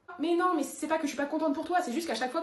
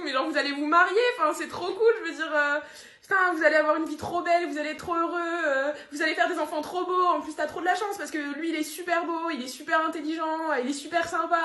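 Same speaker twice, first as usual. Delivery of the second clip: gushing excitement; 4 semitones higher, 4 dB louder than usual. Acted.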